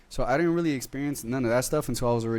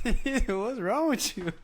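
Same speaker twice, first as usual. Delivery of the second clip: high, slow mock outrage; mimicking appalled boss; 11 semitones higher, much slower than usual. Co-host echoes the story's boss, amused mock outrage. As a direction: echo the impression through a laugh, pitched up.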